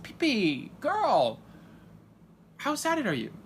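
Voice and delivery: high, loud, gushing question; excited. Retold or imitated. Father asks P P about the pageant, loud excited squeal. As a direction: squeal it to her with glee. Asking his wife excitedly.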